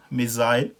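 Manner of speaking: मिसाइल said "mi-zile"; British missile. Shown as a demonstration. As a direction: stretch the "isle" in मिसाइल. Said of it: "ये फ़र्क है इस तरह से".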